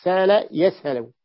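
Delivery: سال يسهل said slowly with a long smooth ā and no glottal stop; hamza softened. Shown as a demonstration. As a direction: draw out سال يسهل without any catch in the throat. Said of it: "يعني بدون تحقيق الهمزة".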